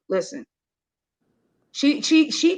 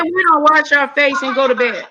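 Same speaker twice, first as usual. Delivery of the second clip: white lady voice. Retold or imitated. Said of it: "Caucasian version".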